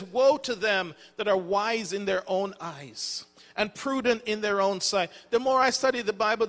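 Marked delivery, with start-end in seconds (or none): 0.0-5.1 slow scripture reading. Shown as a demonstration. Preacher reading Isaiah to the congregation, slow and deliberate. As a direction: read the verse slowly and deliberately. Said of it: "it says".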